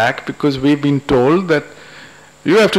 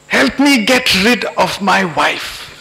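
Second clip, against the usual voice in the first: higher, drawn-out desperate outburst; blurted plea; 5 semitones higher, slower than usual. Acted. Husband begging the god for help, blurted plea. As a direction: blurt it out, pitched up and slow. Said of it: "this man blurts out".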